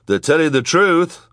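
high, loud declaration; crying out. A narrator's reading. Frank standing up for the children, high loud cry. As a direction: cry it out in their defence. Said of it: "cried Frank".

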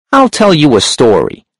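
a sharp, high-pitched hunchback. A narrator's reading. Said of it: "The hunchback's voice was sharp and high".

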